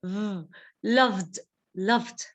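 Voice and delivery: "loved" keeping the v vibrating into the d; throat vibration. Shown as a demonstration. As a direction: buzz a v, then "loved" with a voiced vd. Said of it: "having a vibration in our throat".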